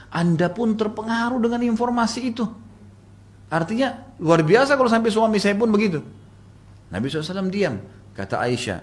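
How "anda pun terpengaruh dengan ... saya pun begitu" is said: high-pitched retold protest; indignant protest. Wife standing up to her husband over the rumour, indignant.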